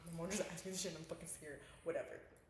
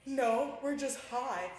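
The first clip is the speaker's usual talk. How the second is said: loud hyper blurt; 4 semitones higher, 9 dB louder, much slower than usual. Retold or imitated. Caught by dad, blurting.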